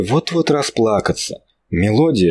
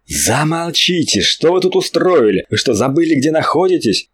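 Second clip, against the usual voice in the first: higher, angry yell to silence them; angry shout; 7 semitones higher than usual. Acted. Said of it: "гневно закричал Владимир". (гневный крик, чтобы все замолчали)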